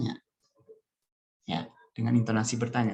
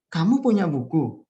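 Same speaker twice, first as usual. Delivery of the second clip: Kamu punya buku louder, pitched up on kamu, asked as a question; question intonation; 3 semitones higher, 6 dB louder than usual. Shown as a demonstration. Teacher demonstrates question tune to class, questioning intonation. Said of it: "intonasi bertanya seperti ini".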